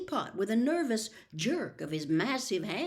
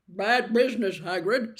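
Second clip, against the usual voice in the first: clipped tones; 6 dB louder than usual. Acted. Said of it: "in rather clipped tones".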